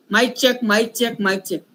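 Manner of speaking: mock sound-check chant, fading away; imitating people testing the mic, trailing off. Speaker mocks people doing mic checks on stage, repetitive fading chant. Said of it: "लोग जो करते हैं ना".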